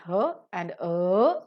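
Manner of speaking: "her" and "a" with a long central vowel; strong form. Shown as a demonstration. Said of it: "The strong form of the pronunciation".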